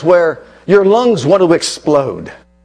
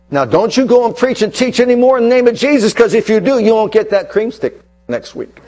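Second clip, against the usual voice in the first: mock mild scolding; 3 semitones higher than usual. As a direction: scold lightly, as if withholding a treat. Mock threat the apostles never got.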